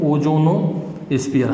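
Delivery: stretched-out naming of the term; slow term dictation. Shown as a demonstration. Teacher answering his own question for students, slow and drawn-out. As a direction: say it slowly so students remember.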